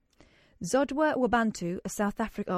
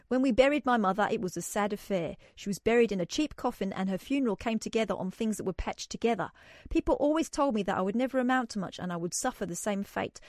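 South African accent. Shown as a demonstration. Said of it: "Is it appropriate to do the accent for this".

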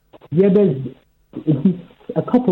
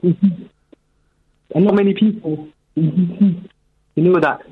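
muffled phone. Real, not acted. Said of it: "Very muffled".

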